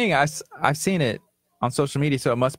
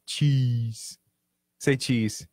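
low, soft, drawn-out co-worker impression; Kurt voice; 3 semitones lower, 5 dB quieter, much slower than usual. Showing off impressions of a co-worker, low drawn-out mock voice. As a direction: imitate a co-worker, low and quiet. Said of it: "say something like".

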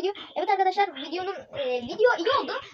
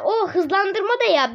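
odd slowed voice; 3 semitones higher, 3 dB louder, slower than usual. Shown as a demonstration. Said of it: "garip sesim çıksın diye".

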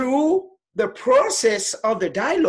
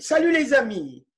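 quick model phrase; 2 semitones higher, 3 dB louder, much faster than usual. Shown as a demonstration.

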